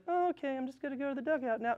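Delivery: high, soft, fast careless tone; lazy shrug. Retold or imitated. Mock player giving up on running to base, careless. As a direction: toss it off like it doesn't matter. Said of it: "You can't be like".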